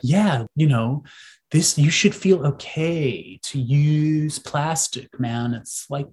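put-on slow lazy California accent. Mocking plastic marketing in a California accent. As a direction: drawl it like a laid-back California surfer. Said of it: "I'm doing the California accent".

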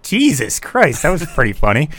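high, laughing disbelief; amused retold exclamation; amused exclaim. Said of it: "I'm like".

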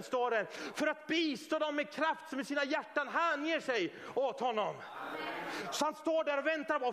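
sustained high, driving preacher's proclamation; full-force preaching. Acted. Preacher voices God rallying believers and taunting Satan, forceful preaching.

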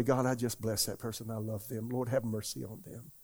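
soft, tender prayer; gentle blessing. Shown as a demonstration. Preacher modelling a gentle prayer for the congregation, soft and tender. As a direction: bless them quietly, with compassion. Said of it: "So if you just say".

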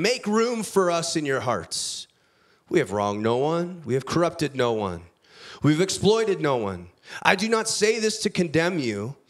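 measured, earnest reading of a Bible passage; scripture reading. Acted. Preacher reading Paul's letter to the church, earnest scripture reading. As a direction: read the letter to the congregation with weight. Pastor reads scripture aloud.

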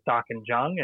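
Darkinjung with the J sounded, as written; Land Council spelling. Shown as a demonstration. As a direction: say Darkinjung as "DAR-kin-jung". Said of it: "they currently spell it as".

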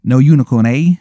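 loud, bad English punk voice; unconvincing English accent. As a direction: challenge in a fake English accent. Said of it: "his accent isn't convincing at all".

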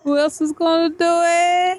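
very high-pitched girlish imitation; little girl talk. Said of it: "She talks like this all the time".

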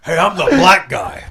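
Stargate character impression. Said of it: "The cast of Stargate Universe".

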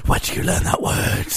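high, breathless horrified mother; shocked mom. Retold or imitated.

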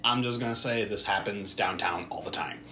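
whispered confession; whispered aside. Real, not acted. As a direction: lean in and whisper it. Confiding aside about downtown.

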